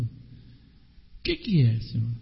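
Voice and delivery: despairing plea. Acted. Believer confessing to God, slow, low despairing plea.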